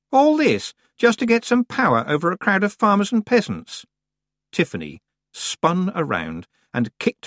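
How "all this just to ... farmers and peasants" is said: put-on high, loud haughty girl; a bossy young witch pushing in; proud young witch. A narrator's reading. Anagrama scoffs.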